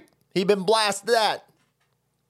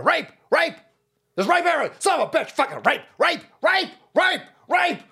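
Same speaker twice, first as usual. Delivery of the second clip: mock hysteria; 9 semitones higher than usual. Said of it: "they're like".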